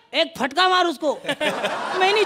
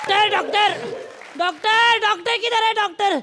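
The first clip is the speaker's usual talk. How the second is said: calling out. Acted. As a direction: yell for the doctor in labour. Pregnant woman calling for doctor.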